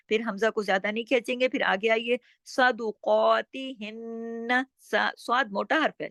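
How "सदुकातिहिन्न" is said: slow सदुकातिहिन्न with thick s and q; heavy opening, long qaa, hummed n in सदुकातिहिन्न; heavy letters. Shown as a demonstration. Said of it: "स्वाद को मोटा पढ़ना है।". (सदुकातिहिन्न, स्वाद और कॉफ मोटे)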